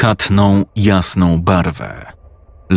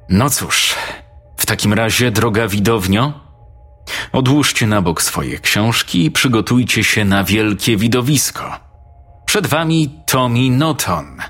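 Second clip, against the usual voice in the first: a touch higher, playful showman teacher; teacher announcing; 4 semitones higher than usual. Acted. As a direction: announce the boy like a stage act.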